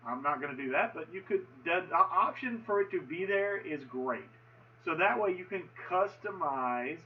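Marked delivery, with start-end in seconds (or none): 4.8-7.0 "customize" leaned on, slower, drawn out; emphasize "customize" deliberately; stress on customize. Shown as a demonstration. Telling players they can tailor the franchise, stressing customize. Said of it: "I emphasize the word customize".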